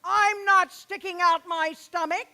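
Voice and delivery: teacher glares down at the student and snaps back with malevolence; malevolent. Retold or imitated. Snooty teacher answering with mock malevolence. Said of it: "with all the malevolence I could muster".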